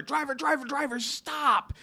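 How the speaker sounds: half-hearted call to stop the cab; urgent call to the cab driver, lightly voiced; mild mock yell. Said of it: "I just yelled to the driver".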